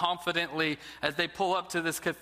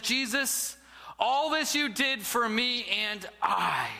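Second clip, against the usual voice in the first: careless, offhand prayer, a little slower; flippant; 2 semitones higher than usual. Acted. Arrogant man at the statue of Jesus, flippant. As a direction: toss the words off as if they mean nothing. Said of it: "flippantly he looks up".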